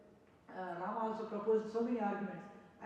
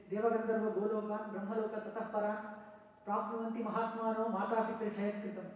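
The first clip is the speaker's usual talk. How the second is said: sanskrit verse recitation. Acted. Rama reciting a verse to Vasishtha, chanted. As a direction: chant the shloka in a steady recitation tone.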